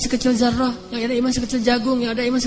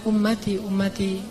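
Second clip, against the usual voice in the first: pleading whisper; 4 semitones lower, 8 dB quieter than usual. Acted. Prophet pleading for his people.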